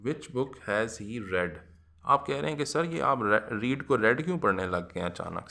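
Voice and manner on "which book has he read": slow dictation. Shown as a demonstration. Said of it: "dictates sentence".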